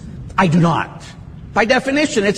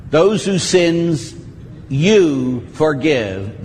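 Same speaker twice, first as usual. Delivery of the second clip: slow scripture quote; much slower than usual. Shown as a demonstration. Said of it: "quoting John twenty slowly".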